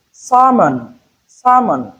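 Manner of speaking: sermon for salmon, said SA-mon; silent L. Shown as a demonstration. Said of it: "Letter L is silent".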